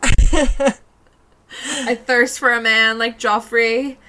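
swooning. Real, not acted. Swooning over Joffrey.

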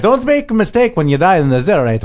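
high, loud echo of the number; mock announcer holler. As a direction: belt out the number like a huckster. Co-host hollers number after host.

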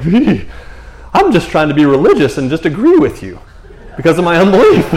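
loud, laughing mock protest; laughing mock excuse. Preacher plays Martha excusing her unbelief, laughing loudly. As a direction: blurt it loudly and break into laughter.

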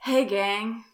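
John voice. Acted. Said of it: "Should I do a voice for this?".

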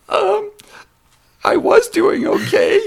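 very high, loud tiny halfling; Orym. Retold or imitated. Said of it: "plays this tiny little halfling".

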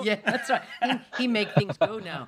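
giggling as she dumbs the words down; laughing. Real, not acted. Wife teasing her husband about his tech skills, laughing.

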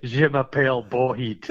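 mock Scottish French. Shown as a demonstration. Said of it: "French with a kinda Scottish accent".

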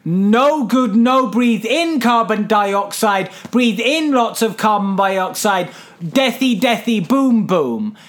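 mock caveman-simple explainer, slow in places; lightly played teacher dumbing it down; talking down to a child. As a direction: explain it like to a little kid, word by word. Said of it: "I am not a child".

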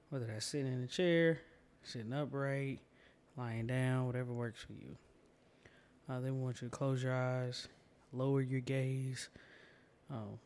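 calm, unhurried guiding voice; guided meditation. Acted. Host guiding listeners into a comfortable position, calm meditation voice. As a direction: ease the listener into the practice.

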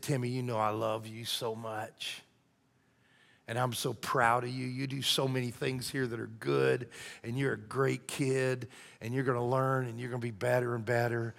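put-on soft, gentle comforting of a child; tender reassurance. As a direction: reassure a crying boy quietly. Principal comforting a sobbing child.

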